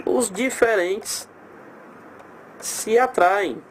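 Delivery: Os diferentes se atraem said slowly, each word apart; dictating the rule slowly for students; slow, spelled out. Shown as a demonstration. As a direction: lay out Os diferentes and se atraem one at a time, unhurried. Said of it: "repeats the rule slowly".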